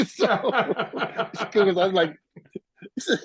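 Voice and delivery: slow words through laughter; laughing. Real, not acted. Musician laughing as he retells a singer's no. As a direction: laugh while trying to go on.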